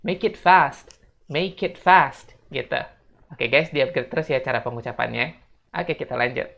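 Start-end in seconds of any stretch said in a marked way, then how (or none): 0.0-2.3 "make it fast" as may-kit fast, high and loud; emphatic teacher's "make it fast"; linked model phrase. Shown as a demonstration. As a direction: join "make it", then land firmly on "fast". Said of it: "Jadinya kayak gini".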